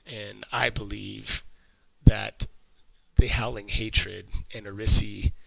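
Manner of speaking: lightly voiced cultist explaining himself; captured cultist. Captive cultist explaining the factions, lightly voiced and halting.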